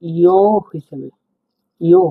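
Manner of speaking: ইয় said slowly like a glide; teacher showing the ইয় sound; sound demo. Shown as a demonstration. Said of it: "এটা উচ্চারণ হবে".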